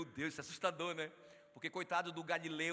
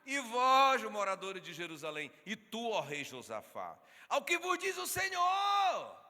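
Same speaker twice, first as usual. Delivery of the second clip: slow, loud proclamation, soaring high at the end; preaching at full force; 4 semitones higher, 8 dB louder, slower than usual. Acted. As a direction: thunder the scripture to the crowd.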